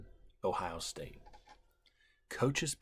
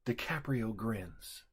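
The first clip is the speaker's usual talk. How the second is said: whisper yelling; 4 semitones higher than usual. Real, not acted. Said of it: "Whisper screams".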